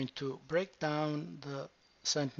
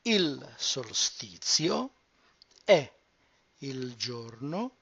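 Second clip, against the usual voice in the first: slow, careful "Il solstizio è il giorno più"; slow model read; slower than usual. Shown as a demonstration. Teacher slowly modelling the sentence. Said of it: "slow model sentence".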